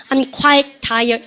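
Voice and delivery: very slow, every word drawn out; slow sentence for students to echo; slow drill. Shown as a demonstration. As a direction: model it slowly for the class. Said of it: "시작".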